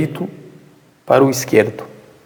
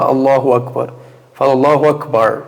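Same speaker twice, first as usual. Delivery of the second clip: Allahu Akbar with a light American R; American accent. Retold or imitated. Teacher imitates an American saying the takbir, American accent. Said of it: "pra um americano falar".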